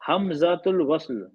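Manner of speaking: name said slowly for students; slow naming. Shown as a demonstration. Teacher to students, naming the letter slowly. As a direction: spell out the term slowly. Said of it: "इसका नाम अलिफ नहीं है".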